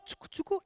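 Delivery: soft high chucu-chucu rhythm; light rhythmic mouth noise; shuffle sound. Shown as a demonstration. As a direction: mimic the sound of cards shuffling. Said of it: "el sonido de la mezcla".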